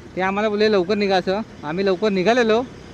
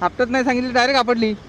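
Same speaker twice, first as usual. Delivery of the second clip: surprised; 6 semitones higher, 5 dB louder than usual. Real, not acted. Bike bumps right after boasting.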